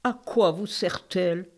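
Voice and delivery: put-on queen with an Eastern accent. The queen answers the king in an Eastern accent. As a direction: speak French with a light Eastern European accent. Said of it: "Vous avez un bel accent de l'Est".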